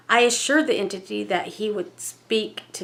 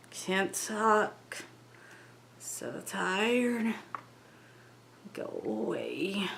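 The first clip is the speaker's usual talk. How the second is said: softer spirit voice sinking to a whisper; fading mumble; 7 dB quieter, much slower than usual. Acted. Entity through the medium trailing off into a tired mumble, softer and softer. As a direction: let the spirit fade out, worn out. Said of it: "degenerated into a mumble now".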